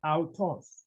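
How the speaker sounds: "autos" said AU-TOS with an s ending; careful Greek pronunciation. Shown as a demonstration. Teacher modelling masculine form for learners, "autos" carefully as ow-TOS. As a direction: pronounce "autos" as ow-TOS, clearly. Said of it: "we pronounce it as".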